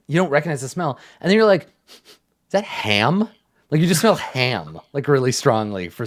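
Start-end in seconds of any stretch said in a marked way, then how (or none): 1.9-3.3 puzzled. Acted. Player's puzzled reaction voiced.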